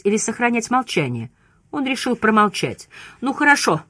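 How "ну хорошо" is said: higher start, falling away; mildly resigned; sighing concession. A narrator's reading. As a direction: give in with a light sigh. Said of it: "со вздохом проговорил Чамберс".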